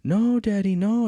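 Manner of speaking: high, loud mock tantrum wail; mimicked child yelling in protest, high and loud; screaming child imitation. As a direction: wail it like a little kid begging dad to stop.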